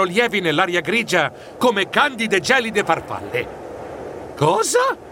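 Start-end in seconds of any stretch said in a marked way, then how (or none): 4.4-5.0 perplexed, drawn-out disbelief; startled high start, then slow puzzlement; puzzled muttering. A narrator's reading. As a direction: question it slowly, baffled. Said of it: "borbottai perplesso".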